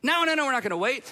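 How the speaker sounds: insistent father. Retold or imitated. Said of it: "He would say".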